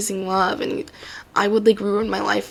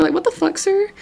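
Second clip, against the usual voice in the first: exasperated outburst; 6 semitones higher than usual. Real, not acted. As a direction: blow up at the mayor in disbelief. Exasperated rant at mayor.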